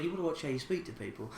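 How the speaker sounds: a hushed quick telling-off, half to himself; quiet rebuke to a rude stranger; said a bit quiet. Retold or imitated. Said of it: "I sort of said it a bit quiet".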